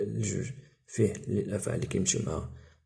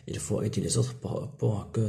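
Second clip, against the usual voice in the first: slow dictation read; much slower than usual. Shown as a demonstration. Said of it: "خصني تعطيني جواب".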